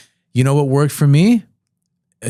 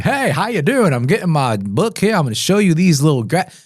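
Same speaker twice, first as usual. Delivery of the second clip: hammed-up salesman, pitched up and swooping; salesy pitch; 6 semitones higher than usual. Mocking the sales pitch no one wants, salesy. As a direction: put on a fake, over-eager sales voice. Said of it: "No one wants that salesy".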